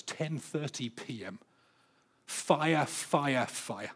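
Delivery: soft, slow, almost breathless reading of the diary; hushed awe. Retold or imitated. Reading Pascal's mystical diary entry.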